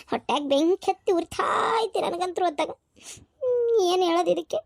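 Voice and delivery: soft tearful lament; a hurt wife crying softly to herself. Acted. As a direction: weep the words quietly. Wronged wife weeps over the land.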